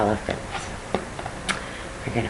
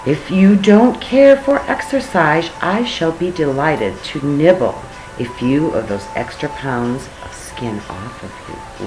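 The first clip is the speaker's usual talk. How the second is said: menacing tiger. Acted. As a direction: purr it out like a hungry tiger.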